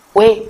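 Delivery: "quê" as one gliding syllable, crisp and isolated; model pronunciation. Shown as a demonstration. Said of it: "chúng ta sẽ đọc cái này là".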